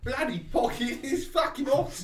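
high-pitched aggressive rant; a hot, angry compass swearing up high; mock fury, pitched well up. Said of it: "So aggressive".

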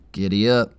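perky chirped quip; chirpy. A narrator's reading. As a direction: chirp it cheerfully. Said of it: "he chirps".

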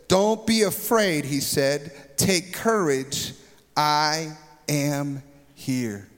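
slow, calm and comforting; lightly voiced, tender reassurance; reassuring Jesus. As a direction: draw it out gently to calm the fearful. Jesus speaking to frightened disciples.

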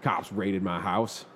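slow, low and deadpan. Retold or imitated. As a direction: drop it slowly and flatly. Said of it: "He's like".

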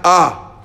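A shaded toward "oh"; slow A halfway to O; between A and O. Shown as a demonstration. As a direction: say A drawn out, slightly rounded. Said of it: "como una A y una O".

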